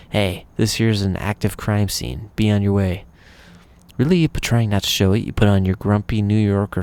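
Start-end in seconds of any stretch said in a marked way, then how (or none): 0.1-3.0 slow thick Brooklyn cop drawl; Brooklyn accent. Acted. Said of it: "yells in a thick Brooklyn accent".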